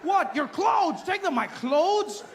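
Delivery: high, loud back-and-forth yelling; escalating argument at security; guard yelling and traveller yelling back; shouted exchange. Retold or imitated.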